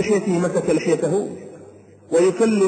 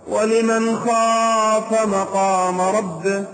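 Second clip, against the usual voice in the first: slow chanted Quran recitation, each word drawn out; slow melodic tajweed chant; much slower than usual. Acted. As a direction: chant the verse slowly like a reciter in prayer.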